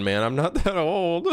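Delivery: laughing protest. Real, not acted. Streamer insisting he isn't old, breaking into laughter. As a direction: protest through rising laughter.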